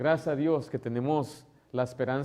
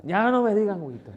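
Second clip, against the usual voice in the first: put-on high, louder old grandma protest; grandma complaining; 7 semitones higher, 5 dB louder than usual. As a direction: protest the nickname like a fed-up grandma. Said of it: "me reclama". (abuelita reclamando a los nietos por el apodo, voz aguda)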